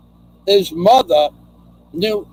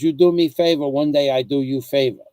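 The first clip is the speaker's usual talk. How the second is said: mild imitation of a Chinese accent, words dropped; a light Chinese-accented quote of the friend. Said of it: "That's how he talked".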